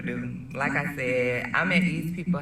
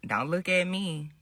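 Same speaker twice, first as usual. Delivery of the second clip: a quieter take of the defensive line; demo line; 3 semitones higher, 3 dB quieter than usual. Shown as a demonstration. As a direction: say it softly, just as she did. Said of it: "Just like this, do what you do".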